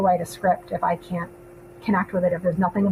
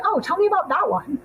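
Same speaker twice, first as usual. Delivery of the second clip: raised, imitating another person; higher, lightly mimicking a client; high mock voice; 9 semitones higher than usual. Retelling next person's request.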